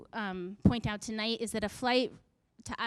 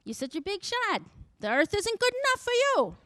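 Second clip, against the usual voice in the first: God's mocking voice, pitched higher and louder, with a laugh; irritated God; 6 semitones higher, 3 dB louder than usual. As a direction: taunt the little people on the plane like an irritated God. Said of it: "I feel like he's saying".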